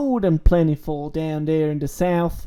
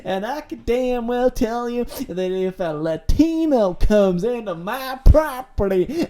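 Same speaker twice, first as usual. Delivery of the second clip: put-on Clyde's Southern redneck accent; 2 semitones higher, 4 dB louder than usual. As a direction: play Clyde, the proud Southern farmer, in a broad hick accent. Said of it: "this Southern redneck accent".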